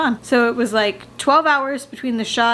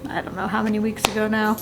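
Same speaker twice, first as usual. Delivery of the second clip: out of breath; 4 dB quieter than usual. Real, not acted. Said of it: "I'm sorry that I'm out of breath".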